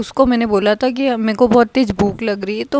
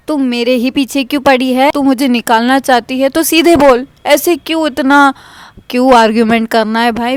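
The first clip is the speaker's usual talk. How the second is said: angry talking back; 3 semitones higher, 4 dB louder than usual. Retold or imitated. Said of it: "इतना सामने जवाब दिया है".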